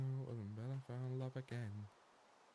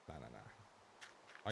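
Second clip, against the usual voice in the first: deep slow nah; 13 semitones lower, 14 dB quieter, much slower than usual. Pretend. Low slow drawn nah.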